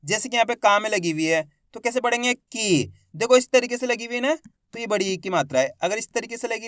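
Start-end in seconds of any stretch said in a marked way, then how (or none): 2.3-2.9 "की" with the long ee held; drawn-out vowel. Shown as a demonstration. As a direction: stretch the vowel of "की". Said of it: "खींच खींच के इसका उच्चारण करेंगे".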